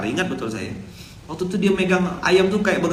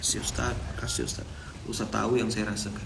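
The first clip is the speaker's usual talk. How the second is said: whispered, tearful thanks; crying thanks; 6 semitones lower, 11 dB quieter than usual. Retold or imitated. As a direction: breathe it out as if crying. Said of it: "Langsung nangis dia". (bisikan haru seperti menangis)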